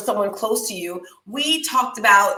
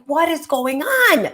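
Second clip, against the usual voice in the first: higher and slow, laughing through it; laughing disbelief; 6 semitones higher, slower than usual. Retold or imitated. Retelling her breakup pain, a slow laughing question. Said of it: "I was like".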